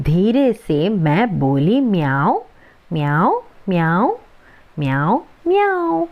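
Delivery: slow recited line ending in playful cat meows. Acted. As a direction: meow like a cat to scare a mouse. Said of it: "പൂച്ചയെ പോലെ അല്ലേ".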